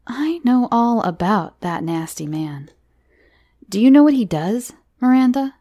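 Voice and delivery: loud, building scare-tale voice; ominous storyteller. Acted. Johnny frightens Miranda with a nasty man, ominous. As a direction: draw a child into a scary secret.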